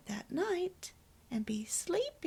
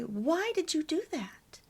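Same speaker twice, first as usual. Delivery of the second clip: higher-pitched demo of a challenge; accusatory question; 6 semitones higher than usual. Shown as a demonstration. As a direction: show the blaming way to ask. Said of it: "So try never to say".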